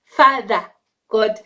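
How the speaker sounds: slow booming mock God voice; a hammed-up divine voice, slow and loud. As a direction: play God, solemn and loud. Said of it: "the speaker being the speaker".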